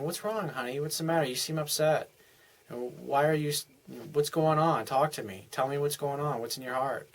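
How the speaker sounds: soft, caring questions to an upset partner; gentle concern. Retold or imitated. Husband softly asking his upset wife what's wrong, tender. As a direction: coax her to open up, tenderly.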